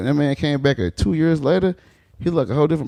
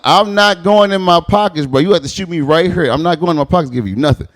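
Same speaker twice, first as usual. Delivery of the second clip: louder, slowed, defiant; defiant refusal; 5 semitones higher, 4 dB louder than usual. Retold or imitated. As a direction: stand your ground. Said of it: "I'm like".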